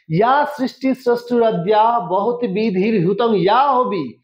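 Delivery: slow, careful Sanskrit chant; careful recitation. Shown as a demonstration. Teacher recites the shloka slowly with proper pronunciation. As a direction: recite it slowly, sounding every syllable. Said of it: "উচ্চারণটা কিন্তু দরকার".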